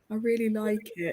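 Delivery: shy, tentative, timid, small voice. Retelling how Lizzie peered around the door to answer, imitating Lizzie's timid voice. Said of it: "most timid voice I've ever used".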